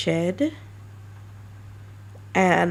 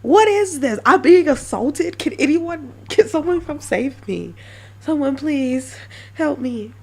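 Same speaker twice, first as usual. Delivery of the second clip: high, loud, hammed-up yelling for rescue; mock panic, much higher and louder, slowing at the end; mock panicked cry for help; 9 semitones higher, 6 dB louder than usual. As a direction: play a listener begging to be saved, overacted. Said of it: "And you're like".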